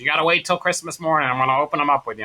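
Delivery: lightly imitated mother; a hint of an insistent mom; smoker mother's voice. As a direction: lay down the rule in mom's voice. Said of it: "I always wanna do her voice".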